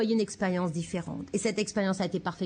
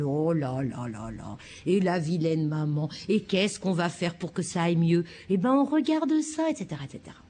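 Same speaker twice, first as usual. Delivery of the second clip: parent tendre qui console son bébé; 3 semitones lower than usual. Acted. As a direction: bercez le bébé avec des mots. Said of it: "il fait quelque chose comme". (un parent qui réconforte tendrement son bébé)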